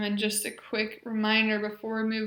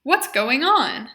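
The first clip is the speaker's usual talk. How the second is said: each phrase spoken much louder and clearly; modeled phrases; 2 semitones higher, 10 dB louder than usual. Shown as a demonstration. Therapist modeling functional phrases for the patient, loud and clear. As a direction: project every phrase for the patient to copy. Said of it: "So I will say the phrase".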